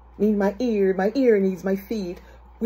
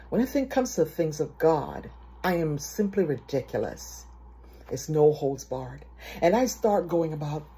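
normal talking voice

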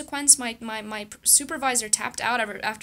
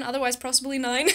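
laughing at own joke; 3 semitones higher, 4 dB louder than usual. Real, not acted. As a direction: giggle through the words. Self-deprecating joke about subscribers.

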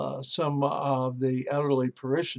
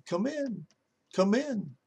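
high squawky "come in"; parrot voice; 6 semitones higher, 4 dB quieter than usual. Acted. Parrot in its cage greeting the pinned pastor, squawky. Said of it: "he hears the parrot say".

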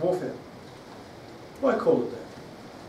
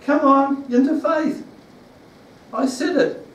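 high, loud urging call of God; 9 semitones higher, 6 dB louder than usual. Retold or imitated. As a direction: push them into faith, loudly. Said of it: "God has to push us again and say".

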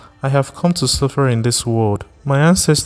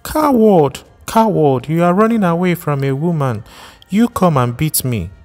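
taunting shout; 8 semitones higher than usual. Acted. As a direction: scream "coward" after him as he hides. Wife shouting through locked door.

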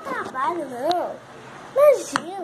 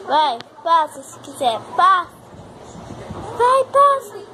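loud dare; 5 dB louder than usual. Real, not acted. Daring the cat to pass.

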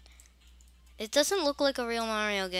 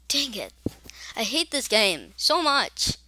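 frustrated shout; 2 semitones higher, 7 dB louder than usual. Real, not acted. Gamer losing at the game, frustrated shout.

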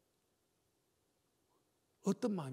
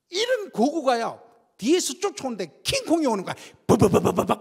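excited retelling; 3 semitones higher, 6 dB louder than usual. Retold or imitated. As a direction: paint a giant coming at you. Describing a huge player charging. (높고 크게 흥분한 묘사)

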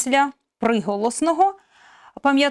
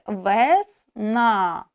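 slow demo word; 2 semitones lower than usual. Shown as a demonstration. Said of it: "останній голосний вимовляється з найбільшою силою голосу".

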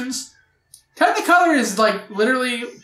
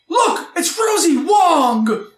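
excited surprise; 5 semitones higher, slower than usual. Real, not acted. Spots a name in credits.

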